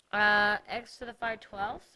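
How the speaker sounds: talking around a cough drop; sucking a hard candy while speaking; cough drop in mouth. Real, not acted. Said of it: "I have a cough drop in my mouth".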